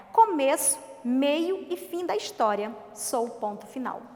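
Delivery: put-on children's poem read aloud; poem recital. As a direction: recite the verses with a measured lilt.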